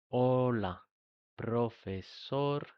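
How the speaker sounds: "profesor" stretched very slowly, syllable by syllable; slow teacher's model of "Hola, profesor"; slow demo. Shown as a demonstration. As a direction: drag out "profesor" so learners hear each sound. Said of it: "Fijaros cómo voy pronunciando".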